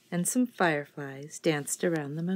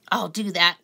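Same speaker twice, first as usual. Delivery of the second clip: screeching; 7 dB louder than usual. A narrator's reading. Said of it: "screeched the grouchy ladybug".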